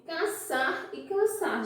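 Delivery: "caçar e caçar" pronounced identically, both ending on a stressed syllable; demonstrated pronunciation. Shown as a demonstration. Teacher asking the class to compare sounds, demonstrated pronunciation. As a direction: say "caçar e caçar" as two matching sounds. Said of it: "Quando eu pronuncio".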